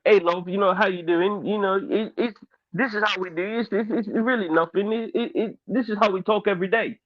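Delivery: lightly put-on English accent; casual chat in an imitated English accent. Shown as a demonstration. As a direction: do a loose, offhand English accent. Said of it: "I can do an English accent".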